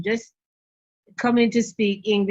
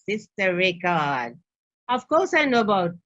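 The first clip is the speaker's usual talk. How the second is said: put-on Bajan accent; 4 semitones lower than usual. Father from Barbados answering the catapult question, imitated Bajan accent. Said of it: "in that lovely Bajan accent".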